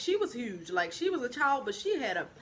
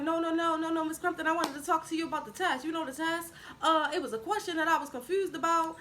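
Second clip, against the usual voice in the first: higher-pitched imitation of a friend stalling; pleading mock stall, pitch raised; 5 semitones higher than usual. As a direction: keep the teacher there with insistent excuses. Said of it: "she was more stalling her".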